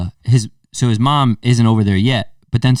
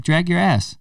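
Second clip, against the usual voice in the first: scolding; 8 semitones higher, slower than usual. Retold or imitated. Telling the kid off.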